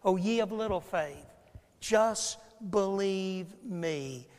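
soft, slow pleading; gentle plea. Retold or imitated. Jesus pleading softly with his disciples. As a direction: coax them gently to believe. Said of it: "he says".

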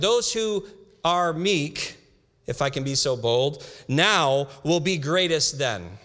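preacher reading the Beatitudes to the congregation, slow and emphatic; emphatic scripture reading. Acted. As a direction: lean on each promise, slowly.

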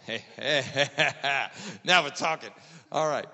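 calling out. Retold or imitated. Calling out in Black Friday crowd.

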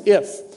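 "if" leaned on, slow; stress on if. Shown as a demonstration. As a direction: dwell on the word "if". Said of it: "notice how he says".

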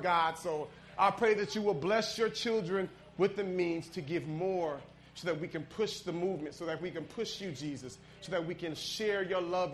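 prayer that softens and drops low to amen. Acted. Preacher praying for the congregation's giving, softening to a hush. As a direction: pray over the congregation, fading down.

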